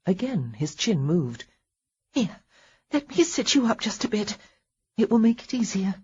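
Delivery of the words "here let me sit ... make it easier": lightly voiced wife, gentle and coaxing; a hint of a nurse's encouragement; caring wife. Wife tends bedridden husband.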